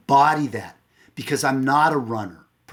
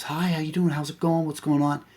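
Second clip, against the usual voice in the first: higher-pitched imitation of a chatty wife; wife's greeting; 4 semitones higher than usual. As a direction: mimic a wife's oblivious, chirpy hello. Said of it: "She says".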